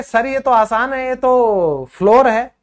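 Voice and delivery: a pupil sure of the wrong answer; lightly voiced student; imitating a student. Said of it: "आप कहोगे".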